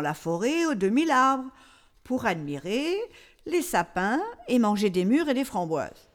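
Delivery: hushed storytelling whisper. Acted. Storyteller lowers voice.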